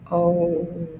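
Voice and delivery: long, loud "O" on steady breath; sustained, level "O"; air pushed through. Shown as a demonstration. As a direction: push the air through a drawn-out "O". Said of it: "Air is being pushed through".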